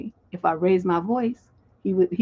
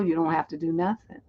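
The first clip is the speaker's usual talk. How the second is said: ordinary delivery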